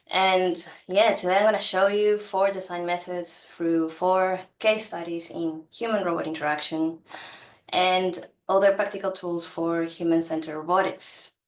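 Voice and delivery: blocked nose, nasal speech; talking through a stuffy nose. Real, not acted. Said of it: "if I sound a bit, uh, nasal".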